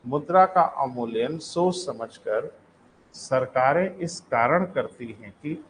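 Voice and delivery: slow, measured, with a break between phrases; slow dictation. Real, not acted. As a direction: repeat slowly for note-takers. Repeats the sentence for writing.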